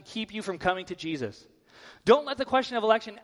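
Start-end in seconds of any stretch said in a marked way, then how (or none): 2.0-3.2 higher, louder and faster restart of Don't; urgent repeat. Shown as a demonstration. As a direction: push the warning harder and quicker.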